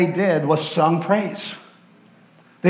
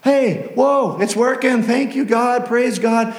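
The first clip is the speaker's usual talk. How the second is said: higher, delighted praise; thrilled worshippers; 6 semitones higher than usual. Acted. Praisers realizing their singing is working, higher delighted voice. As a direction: sound amazed that it works.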